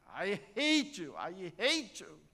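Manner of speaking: loud, high angry yell; child's yell. Retold or imitated. Girl yelling at her mother from the hill, angry. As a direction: yell it out from the hilltop. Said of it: "소리를 지르시잖아요".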